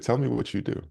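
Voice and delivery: high-pitched attempt at British; bad British accent. British mentor insisting on an answer, imitated British accent. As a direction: imitate a Brit repeating his question. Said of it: "That's my British accent".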